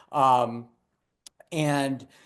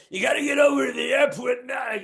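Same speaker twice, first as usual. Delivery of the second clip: higher, rough put-on yell of a drunk boss; drunk dispatcher bark; 8 semitones higher than usual. Drunk dispatcher yelling at a driver in a put-on voice. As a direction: bellow orders like a sloppy drunk. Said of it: "and he'd go".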